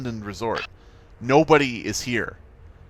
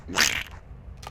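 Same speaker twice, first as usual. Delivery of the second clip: Donald Duck squawk; 6 semitones lower, 5 dB quieter than usual. Retold or imitated. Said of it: "my Donald impression is even worse".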